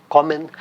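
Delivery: kommen, stressed on ko; stress on first syllable. Shown as a demonstration. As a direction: put the weight on ko in kommen. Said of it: "a sílaba tônica tá no ko".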